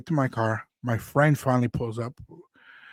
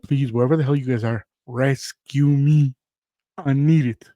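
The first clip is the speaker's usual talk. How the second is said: pleading; 5 dB louder than usual. Retold or imitated. Begging a friend for rescue.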